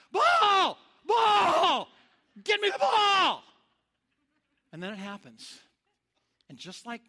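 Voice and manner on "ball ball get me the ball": high, loud yells for the ball; screaming for the ball. Retold or imitated. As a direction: scream for the pass from the water. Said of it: "I'm screaming".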